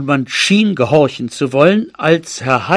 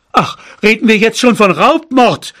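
raised, high-pitched protest; shouting; 6 semitones higher, 4 dB louder than usual. A narrator's reading. Father objecting to talk of robbery and murder, shouting. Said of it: "schrie mein Vater".

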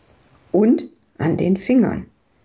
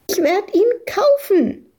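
shrieking; 13 semitones higher than usual. Acted. Little girl shrieks back against the angry farmer, high shriek. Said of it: "kreischte Madita dagegen an".

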